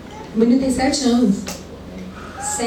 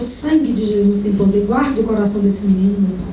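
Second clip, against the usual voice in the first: lower, murmured intercession under her breath; retold quiet prayer; 4 semitones lower than usual. The preacher praying for the neighbour's son at the sink, low and murmured. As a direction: pray under your breath for the boy. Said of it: "E eu".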